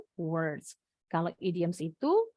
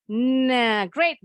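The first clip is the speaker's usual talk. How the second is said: excited praise; 3 semitones higher, 7 dB louder than usual. Real, not acted. Teacher praises the dialogue.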